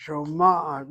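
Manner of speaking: Shoma'at with the accent on MA: sho-MA-at; Shoma'at, middle syllable stressed; stress on first patach. Shown as a demonstration. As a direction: hit the MA in Shoma'at. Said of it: "hit the accent on the first patach".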